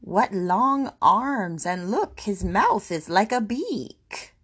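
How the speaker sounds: slow, drawn-out complaint; mildly dismayed mother's grumble; grumbling. Acted. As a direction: grumble with swooping pitch. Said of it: "and she grumbled".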